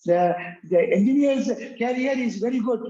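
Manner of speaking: quick imitation of how professors say career; lightly mocking the professors' pronunciation; imitating professors. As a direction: mimic the deans saying career. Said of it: "I have seen deans and professors".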